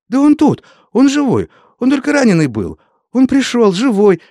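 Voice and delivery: high, loud and fast cry of joy; joyful shout. A narrator's reading. Young wife shouting to Vasya's father that he lives, high and loud. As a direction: shout the news at the top of her voice. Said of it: "закричала девушка".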